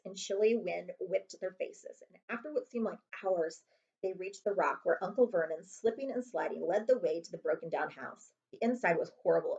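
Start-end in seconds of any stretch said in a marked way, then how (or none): none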